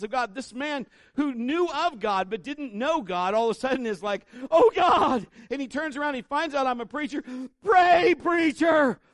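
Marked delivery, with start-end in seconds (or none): 4.5-5.3 high, loud desperate cry; mock cry of fear. Frightened passenger crying out to God, loud desperate. 7.6-9.0 high, loud pleading yell; desperate shout. Retold or imitated. Passenger yelling at the preacher to pray, loud desperate.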